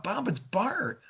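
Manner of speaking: easy, familiar hello on a sales call; familiar phone greeting. Shown as a demonstration. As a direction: greet him as if you already know him. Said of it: "when you say it like that".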